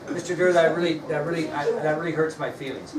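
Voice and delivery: mildly acted polite complaint; pretend hurt feelings. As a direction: play a student nicely voicing hurt. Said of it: "to express her feelings".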